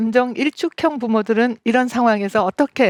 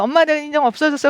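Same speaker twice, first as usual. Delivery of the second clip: put-on higher, quicker child's complaint; upset child; 5 semitones higher, faster than usual. Little child telling mom her doll vanished, upset. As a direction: whine it like a small child. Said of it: "막 화를 낸다면".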